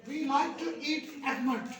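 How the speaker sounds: slow, careful almond sentence; slow model sentence. Shown as a demonstration. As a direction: read it slowly for the class. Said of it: "आह की आवाज निकालो". (धीमा नमूना वाक्य)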